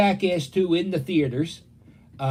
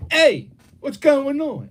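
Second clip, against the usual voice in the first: high-pitched, louder caller greeting; party-line caller; 10 semitones higher, 5 dB louder, slower than usual. Retold or imitated. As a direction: imitate an eager caller chiming in.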